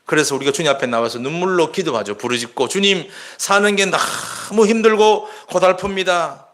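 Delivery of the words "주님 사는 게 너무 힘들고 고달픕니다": tearful crying out. Retold or imitated. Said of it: "간절히 눈물로 기도하면서 부르짖을 때".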